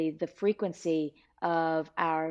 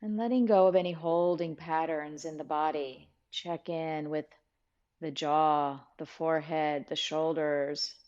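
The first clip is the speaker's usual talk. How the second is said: calm, measured guiding voice with long pauses; guided meditation. Real, not acted. Teacher guiding listeners to settle and breathe, calm meditation voice. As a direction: ease them into stillness, unhurried.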